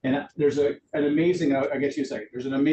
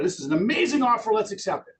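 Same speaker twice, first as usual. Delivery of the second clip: much higher, fast, louder gushing; mock thrilled seller; 8 semitones higher, 4 dB louder, faster than usual. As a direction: rush it out, pitched up and thrilled. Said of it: "That's your seller going".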